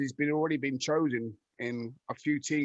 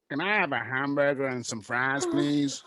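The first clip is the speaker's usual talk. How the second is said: unconvincing put-on American accent; attempted American accent; 2 semitones lower, slower than usual. Shown as a demonstration. Footballer showing the hosts his American accent attempt, in a put-on American accent. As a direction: order in a badly faked American accent. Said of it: "I've got a great American accent".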